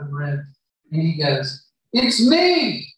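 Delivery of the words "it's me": emotional reveal. Retold or imitated. Joseph reveals himself to brothers.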